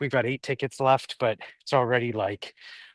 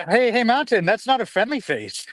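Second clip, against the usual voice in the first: talking to dog; 9 semitones higher, 3 dB louder than usual. Real, not acted.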